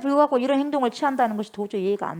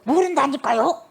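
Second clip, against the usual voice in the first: louder, higher protest under oath; vehement denial; 5 semitones higher, 5 dB louder than usual. Acted. Peter cursing and swearing he doesn't know him, vehement denial. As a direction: insist angrily, as if swearing it. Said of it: "저주하고 맹세하면서".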